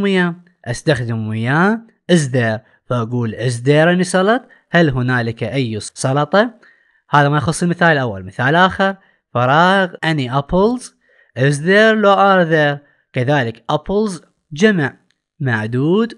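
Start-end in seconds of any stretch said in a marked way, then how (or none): 3.3-4.4 slow, clear classroom English; slow model reading. Shown as a demonstration. Teacher reads the question slowly to pupils, deliberate and clear. 11.4-12.8 slow, louder reading of both options; slow exam choices. Shown as a demonstration. Teacher reads both exam options slowly to the pupils.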